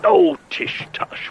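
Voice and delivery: high, slow airy brush-off; a breezy tish-tush; airy dismissal. Acted. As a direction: wave it away theatrically. Agent brushing off the matter airily.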